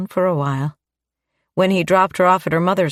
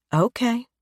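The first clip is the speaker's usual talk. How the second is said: blushing; 6 semitones higher than usual. Acted.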